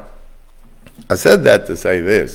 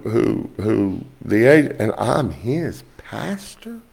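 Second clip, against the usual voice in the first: incredulous; 5 semitones higher, slower than usual. Retold or imitated. Disbelief at being his pastor.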